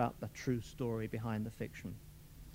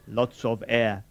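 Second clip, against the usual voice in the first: purring; 5 dB louder, slower than usual. Acted. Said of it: "Fulvia purred".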